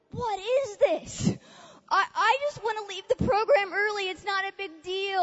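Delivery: high-pitched, mock-bewildered protest; retold freak-out. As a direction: reenact protesting in a mild panic. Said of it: "freaking out".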